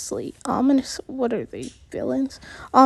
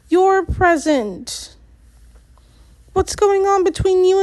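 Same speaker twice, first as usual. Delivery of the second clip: angry confrontation; 5 semitones higher than usual. Acted. Narrator confronts woman about dad.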